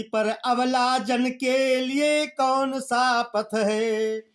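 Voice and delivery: slow, sung-out poem line; slow chanted poetry reading; verse recitation. Acted.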